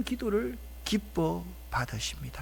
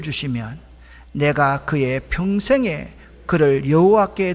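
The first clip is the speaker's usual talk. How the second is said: formal, projected Bible reading; scripture reading; 11 dB louder than usual. Real, not acted. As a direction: read the verse out solemnly to the congregation. Reads the scripture verse aloud.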